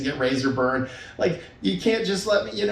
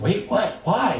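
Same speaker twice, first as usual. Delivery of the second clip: quick, higher startled questions; curious surprise; 4 semitones higher, slower than usual. Acted. Partner hearing about a dream, surprised and curious. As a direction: imitate a partner suddenly intrigued.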